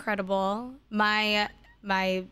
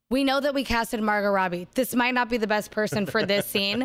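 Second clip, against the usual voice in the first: louder, mock-official studio disclaimer; mock film disclaimer; 4 dB louder than usual. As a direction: read it like a half-joking apology from the studio. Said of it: "then they said".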